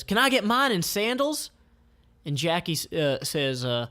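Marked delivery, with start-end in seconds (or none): 0.0-1.5 high sweet elf voice; Flower's voice. Acted. Flower asking the seller, high sweet. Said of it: "Flower says".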